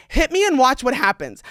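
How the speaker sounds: mock-menacing challenge, pushed out; retold threat. Daring the guy to throw a punch, combative.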